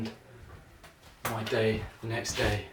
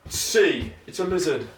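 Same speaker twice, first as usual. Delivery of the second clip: imitating Bradley Walsh; 4 semitones higher, 5 dB louder than usual. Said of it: "That doesn't sound very much like Bradley Walsh".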